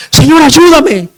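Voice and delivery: imitating the wife's loud, high plea; drawn-out, slow clamor to the Lord; crying out. Wife crying out to God for help, retold clamor. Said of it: "mi esposa también empezó a clamar".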